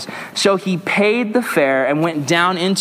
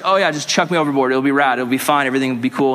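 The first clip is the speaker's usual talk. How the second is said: lightly mocked laid-back dude; breezy mock indifference; nonchalant Jonah; 4 semitones lower, faster than usual. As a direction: shrug it off casually, low and easy. Mimics Jonah as casual, unbothered slacker.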